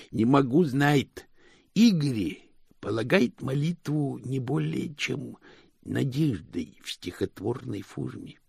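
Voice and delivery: slow, high-pitched lisping henchman; servant Igor. Acted. Igor answering Moist about prayer, lisping servant voice. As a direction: pronounce it ponderously in a thick lisp.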